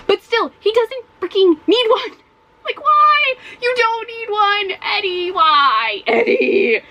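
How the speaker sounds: high, whiny, pleading rant; exasperated plea. Real, not acted. Reader pleading with Eddie in high exasperation. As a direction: beg the character to stop.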